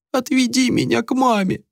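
put-on high tearful child's plea; a little boy whining for mum; whimpering child. A narrator's reading. Boy clinging to the girl's neck, whimpering high. Crying child begs for mother.

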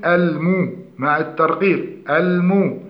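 "المو" with rounded u and light m; clear damma. Shown as a demonstration. Teacher shows the correct vowel, light rounded المو. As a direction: round fully on "المو", keeping it thin. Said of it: "التحقق من ضم الميم".

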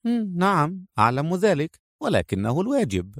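soft, composed female character; gentle, unruffled acceptance; calm. A narrator's reading. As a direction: answer quietly and evenly. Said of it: "قالت منى بهدوء".

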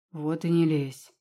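slow, flat final retort; cutting off. Acted. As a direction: shut the argument down. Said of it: "отрезал ректор". (резко отрезал)

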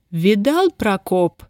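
ordinary delivery, nothing marked

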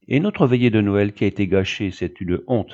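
put-on boy's mildly exasperated outburst. Son protests the spoiled Christmas Eve, exasperated. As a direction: complain with a burst of exasperation. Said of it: "exaspéré".

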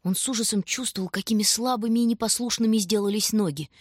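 plain reading voice

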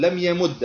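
"لم يمد" with a doubled d ending in short u; final damma. Shown as a demonstration. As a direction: end "يمد" on an -u vowel, yamuddu. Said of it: "بالحركات الثلاثة". ("لم يمد" بضم الدال المشددة)

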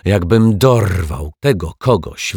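a touch of an angry yell, slowed; boy's angry shout. Acted. Boy threatens whoever ruined his kite, mild angry yell. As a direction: blurt out a kid's threat, mildly angry. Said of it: "wrzasnął nagle chłopiec".

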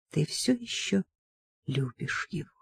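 very soft, hushed question; whispered. A narrator's reading. Mother takes daughter's hand and asks about her love, whispering. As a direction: ask it tenderly under your breath. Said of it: "прошептала Сильви".

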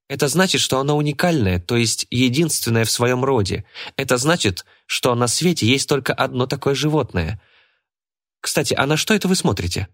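put-on high, know-it-all girl's voice; Джорджия. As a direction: lecture them like a clever girl. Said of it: "прозвучал девчоночий голос".

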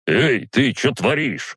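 high, drawn-out indignant challenge. A narrator's reading. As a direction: protest as the outraged neighbour. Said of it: "возмутился тот".

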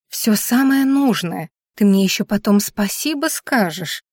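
slow, didactic lecturing; preachy. Acted. Durguza lecturing Darya about her suitcase, slowly and didactically. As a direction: lay it out like a stern teacher. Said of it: "заявила она назидательно".

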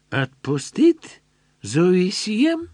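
a soldier drawling a broken question; German soldier. A narrator's reading. German soldier voiced in story.

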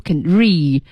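"read" with the final d unreleased; lost plosive. Shown as a demonstration. Teacher showing lost plosion, quick. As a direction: let the d of "read" drop silent. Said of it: "这就不用读出来了".

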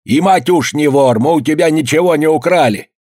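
put-on old man shouting that his son is no thief; shouted protest. A narrator's reading. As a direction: cry out that nobody stole. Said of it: "крикнул".

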